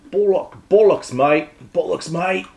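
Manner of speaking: put-on tentative English "mate" accent. Accent guy searching for bollocks, tentative English accent. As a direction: try out a matey English accent. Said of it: "You're the accent guy".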